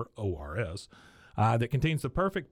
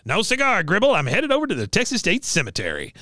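Cotton; 8 semitones higher, 8 dB louder than usual. Retold or imitated. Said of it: "Cotton says".

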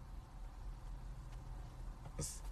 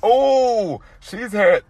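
laughing; 13 semitones higher, 12 dB louder, much slower than usual. Real, not acted. Laughing over the happy hair joke.

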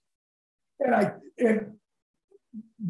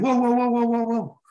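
calling out to stop; 4 semitones higher than usual. Retold or imitated. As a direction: shout them down before they dump it. Stopping the Gatorade dump.

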